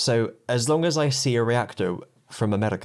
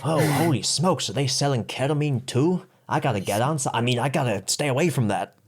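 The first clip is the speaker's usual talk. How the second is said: badly faked American accent; hammed-up American drawn into the joke; wandering mock accent; 2 semitones higher than usual. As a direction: put on a shifting American accent. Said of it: "it's a different accent".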